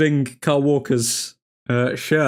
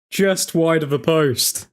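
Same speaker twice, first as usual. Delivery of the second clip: slower, let down, sinking; deflated; 2 semitones higher, slower than usual. Real, not acted. Fan repeating the near miss to himself, deflated. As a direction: let the disappointment settle in.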